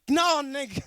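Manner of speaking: a loud, blunt no, half-joking; mock blunt refusal. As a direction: shut them down loud and flat. Blunt refusal in retold quote.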